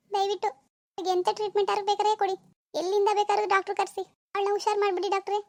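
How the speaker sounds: mother weeping, begging the doctor to cure her daughter; tearful mother. Acted. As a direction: plead with the doctor as if crying. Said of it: "ಅಳ್ಬೇಡಿ ಅಮ್ಮ, ಅಳ್ಬೇಡಿ".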